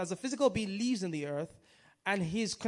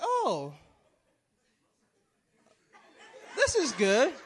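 laughing duck voice; 3 semitones higher, 6 dB louder, slower than usual. Retold or imitated. Duck's relief in a told joke.

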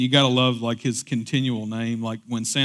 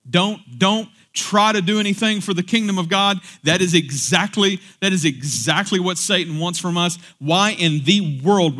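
preaching hard; 5 semitones higher, 4 dB louder than usual. Real, not acted. Preaching with rising force.

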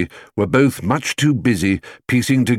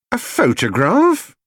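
higher, slowed, astonished question; surprised exclamation; 12 semitones higher, 3 dB louder than usual. A narrator's reading. Housekeeper to Mr Brown, astonished. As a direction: echo the word in amazement. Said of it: "exclaimed Missus Bird".

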